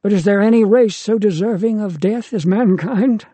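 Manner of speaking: a father hammering his point at his son. A narrator's reading. Deucalion passionately lectures his son.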